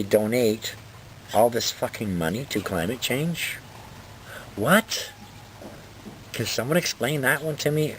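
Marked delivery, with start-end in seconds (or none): 4.6-7.9 incredulous. Real, not acted. Incredulous at donation.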